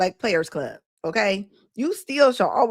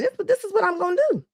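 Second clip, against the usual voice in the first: mock resolve; 7 semitones higher, faster than usual. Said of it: "was like".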